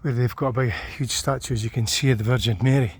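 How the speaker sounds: slightly winded after climbing steps; out of breath. Real, not acted. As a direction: talk while catching your breath. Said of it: "I'm a wee bit out of breath".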